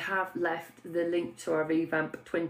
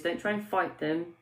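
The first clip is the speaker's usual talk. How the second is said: ordinary talk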